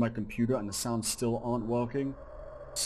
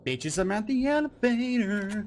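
panicked excitement; 6 semitones higher than usual. Real, not acted. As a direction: shout it out while fleeing. Chased to the elevator.

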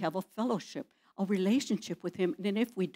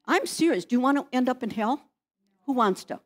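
forceful warning; 4 semitones higher, 5 dB louder than usual. Real, not acted. Pastor warns congregation.

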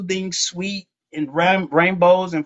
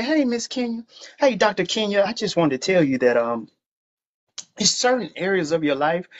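mock polite God. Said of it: "do we talk like that".

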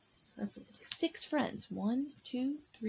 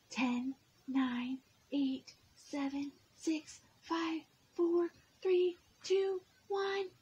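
countdown climbing higher; counting shout; 8 semitones higher, slower than usual. Acted. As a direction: count down like a game seeker. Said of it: "shouts Robo Pete".

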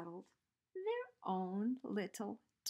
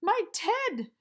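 much louder, higher startled cry; gasping bear; 10 semitones higher, 11 dB louder than usual. A narrator's reading. The bear spots its teddy, loud gasping cry. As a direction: gasp out with relief. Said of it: "gasped the bear".

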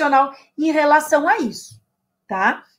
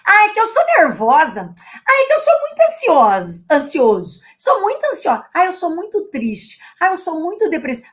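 higher mock whine of someone labeling themselves; mocking self-pity; 4 semitones higher, 4 dB louder than usual. Teacher mimicking anxious people's self-labels, higher mocking whine. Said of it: "essa mania de ficar repetindo assim".

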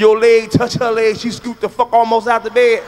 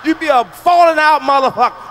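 shouted punchline; 4 semitones higher than usual. Real, not acted. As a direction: shout the payoff to the crowd.

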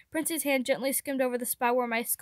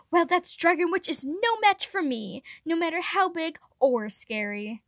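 heroic boast; 5 semitones higher, 4 dB louder than usual. Acted. Prince boasts to reassure child.

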